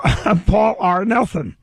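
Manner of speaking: slow, laughing Paul R. Nelson line. Shown as a demonstration. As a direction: drag it out through a laugh.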